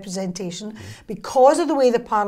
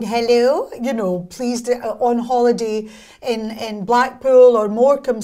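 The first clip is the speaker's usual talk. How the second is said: put-on posh telephone voice, louder; a mother putting on her best phone manners; mock refined phone greeting; mother's phone voice; 4 dB louder than usual. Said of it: "answered the phone going".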